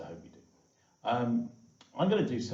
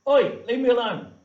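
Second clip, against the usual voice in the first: high, loud squeaky cat yelling at you; 13 semitones higher, 16 dB louder than usual. Shown as a demonstration. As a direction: shriek it like an annoyed cartoon cat. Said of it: "this is what my voice looks like".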